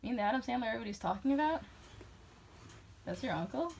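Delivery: mock incredulous questioning; acted-out astonished questions, rising at the end; retold disbelief. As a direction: replay checking that it's really that famous person. Acting out disbelief at classmate.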